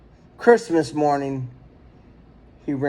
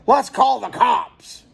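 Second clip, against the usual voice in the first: higher, slow angry neighbor shout; 6 semitones higher, slower than usual. A narrator's reading. Neighbor at the meeting shouts for the police, slow and raised. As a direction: call it out like an outraged neighbor. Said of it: "someone shouted".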